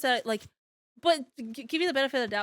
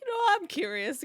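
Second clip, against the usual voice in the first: acted curiosity; 7 semitones higher than usual. Quoting own earlier thought.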